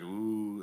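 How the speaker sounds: soft, low "ooh" at a burn; understated scandalized ooh; insult-reaction ooh. Shown as a demonstration. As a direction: demonstrate a crowd's ooh at an insult. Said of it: "like, that kinda thing".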